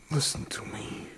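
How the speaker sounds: soft, breathy plea; whispered plea to the widow; urgent whisper. Acted. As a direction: lean in and whisper it. Sheriff pleads with widow.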